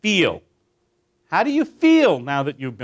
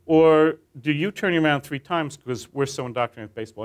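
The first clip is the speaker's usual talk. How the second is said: cutesy aside story. Retold or imitated.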